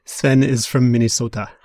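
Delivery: whispered Minnesota accent; hushed upper Midwest vowels. Shown as a demonstration. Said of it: "I'm doing the Minnesota accent".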